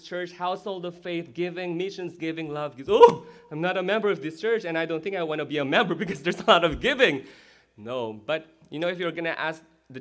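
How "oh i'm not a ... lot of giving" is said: imitating a balking churchgoer; mock reluctance. Preacher mimicking someone reluctant to join, mock reluctance. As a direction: put on a half-joking objection.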